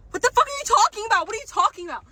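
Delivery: high and loud, incredulous; exasperated yell. Real, not acted. Vlogger ranting at hiring rules, exasperated yell. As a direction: throw the question at them.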